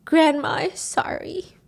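slow, high, faint last words; dying apology. Retold or imitated. Grandma's last words to Mimo, dying apology. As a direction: let the words out slowly, weakly.

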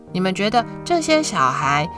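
usual speaking voice

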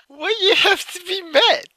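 very high, squeaky mock imitation; mimicking the clip. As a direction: parrot it in a high put-on voice. Mimics the clip's speaker while laughing.

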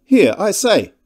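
high, ineffectual interjection; weak attempt at a challenge, pitched high; unimpressive protest. A narrator's reading. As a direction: pipe up loudly but without authority. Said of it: "in rather an unimpressive voice".

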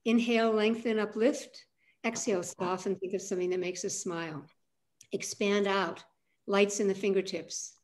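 brisk guided cues, lightly voiced; clipped run-through. Shown as a demonstration. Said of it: "we'll go through it with a little more, um, clip".

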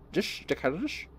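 slushy Scottish impression with sh for s; Sean Connery. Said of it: "Sean Connery".

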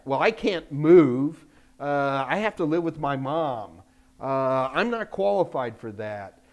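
mocking whiny excuses. Mocking listeners' job excuses.

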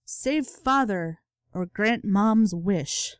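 very slow, weighing the choice; thinking aloud over "Save Father"; slow deliberation. Real, not acted. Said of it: "What should I do?".

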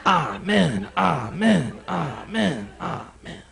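fading preacher amens. Pretend. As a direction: chant amen, fading out.

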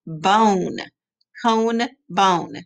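put-on slow, drawn-out model words for kids; choral repeat. Shown as a demonstration. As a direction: say each word clearly so kids echo it. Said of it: "you gotta say it with me".

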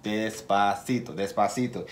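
drawn-out slow demo; said slowly. Shown as a demonstration. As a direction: model a slow, careful pace. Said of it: "es importante hablar despacito".

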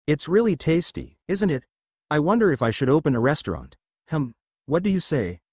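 pleased with the cooking; happy. Acted. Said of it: "asked Gohan happily".

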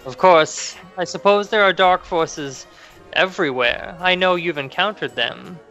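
lightly voiced high crone; a hint of an old fortune teller; old hag.

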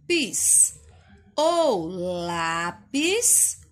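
slow read-aloud. Shown as a demonstration. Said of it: "Olha só a palavra lápis".

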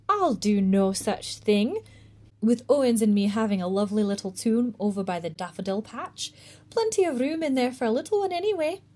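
a hint of a proud country mother; old country woman. Missus Owens voice held.

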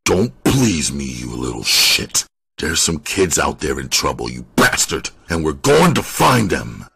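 angry, bitter rebuke; hard punches on the insults; bitter rage. Acted. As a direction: snarl at the suspect, rage partly contained. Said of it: "the rage and bitterness he heard".

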